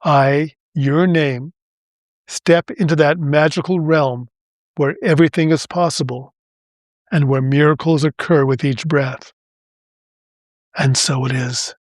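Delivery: deliberate affirmation with pauses between phrases; slow, phrase by phrase. Shown as a demonstration. Host repeating the affirmation for listeners, phrase by phrase. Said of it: "I'll say it slowly, phrase by phrase".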